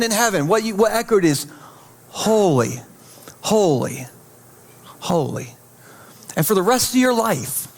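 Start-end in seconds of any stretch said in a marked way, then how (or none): 2.1-5.5 low, hushed awe with long falling words; reverent refrain. Acted. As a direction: intone each word slowly, letting it settle. What echoed in heaven overnight.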